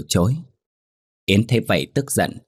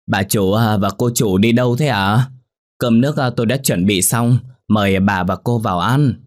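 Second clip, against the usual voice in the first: deferential maid; 3 semitones higher, 4 dB louder than usual. Acted. Maid politely addresses her departing mistresses.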